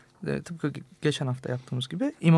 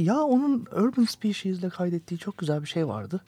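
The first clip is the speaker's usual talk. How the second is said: retold own musing; 4 semitones higher than usual. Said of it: "Ben de demiştim ki".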